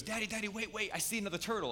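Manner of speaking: imitating a little boy who spotted something; excited child. A father imitating his small son spotting a turtle, eager and high. Son calling out on jet ski.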